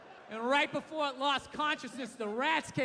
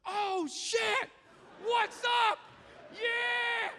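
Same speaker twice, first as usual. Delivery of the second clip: excited gorilla voice; 11 semitones higher, much slower than usual. Pretend. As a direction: greet her like a hyped-up ape, much higher. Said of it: "just looks at her just like".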